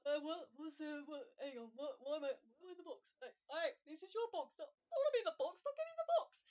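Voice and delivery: high, loud building yell of protest; panicked shout. Acted. Mo panics pulled into box.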